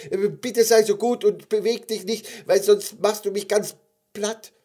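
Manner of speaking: high, loud, anxious plea; little gummy bear. Acted. Gummy bear begs the bear not to move, high plea. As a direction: pipe up pleadingly in a tiny creature's voice.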